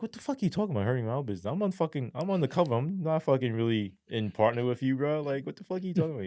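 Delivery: high, rapid disbelief, half under the breath; mock outrage, what are you talking about; incredulous retort. Incredulous retort to business partner.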